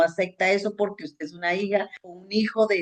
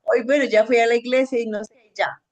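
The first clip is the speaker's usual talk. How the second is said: half-hearted prayer; 5 semitones higher than usual. Retold or imitated. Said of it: "pero no cuando yo diga".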